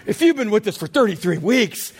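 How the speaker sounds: a touch of whiny sighing; mock weary complaint. Shown as a demonstration. Pastor mimicking the congregation's groan, mock weary. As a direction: say it like a tired old chorus. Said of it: "and then say".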